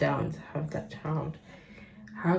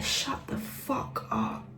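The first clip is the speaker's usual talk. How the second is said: whispered retort; 8 semitones higher, 9 dB quieter, slower than usual. Real, not acted. Muttered retort to mother.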